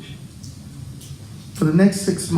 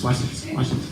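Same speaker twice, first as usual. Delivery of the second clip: whisper; 5 semitones lower, 7 dB quieter than usual. Real, not acted. About to tickle Marcus.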